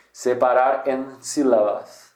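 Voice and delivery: slow, careful Spanish accent. Shown as a demonstration. Teacher repeating the website's title, slow Spanish accent. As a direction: read the title slowly in Spanish. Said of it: "o site mesmo é em espanhol".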